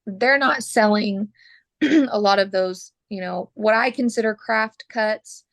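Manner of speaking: losing her voice, hoarse and rough. Real, not acted. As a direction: talk through a failing, hoarse voice. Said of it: "I'm losing my voice".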